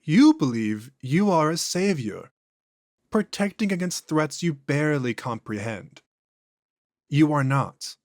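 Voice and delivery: an ancient thing speaking through a man; eerie, unhurried entity; possessed alien voice. Acted. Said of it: "voice and inflections are noticeably different".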